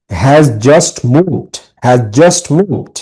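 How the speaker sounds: has just moved, slow with JUST stressed. Shown as a demonstration. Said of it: "এই যে just, এটার উপরে".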